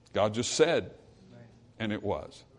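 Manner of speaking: low, soft, almost breathed; hushed awe. Acted. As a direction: let it fall to a hush of wonder. Hushed awe after question.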